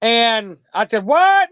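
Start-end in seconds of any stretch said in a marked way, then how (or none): 1.1-1.5 sharp high retold what; squeaky stunned what; shocked what. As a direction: jump up in disbelief. Told about the demon voice.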